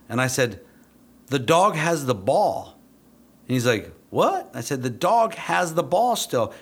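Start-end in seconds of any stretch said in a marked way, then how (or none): 1.3-2.8 high, loud, slow retold statement; incredulous explaining. Trainer pointing out the obvious to handler, incredulous. 4.1-4.5 high-pitched, baffled Southern drawl; Southern accent. Retold or imitated. Confused handler answering the trainer, Southern accent. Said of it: "a Southern accent that's gonna be pretty sweet". 4.8-6.5 high, loud, slow retold statement; incredulous explaining. Trainer pointing out the obvious to handler, incredulous.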